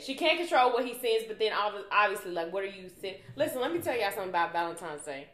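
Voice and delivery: jaw locked, teeth clenched; through gritted teeth. Real, not acted. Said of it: "I'm clenching my teeth right now".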